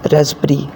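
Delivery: रास्पबेरी said with a silent p, like rasberry; रास्पबेरी with the p dropped. Shown as a demonstration. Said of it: "ना कि रास्पबेरी".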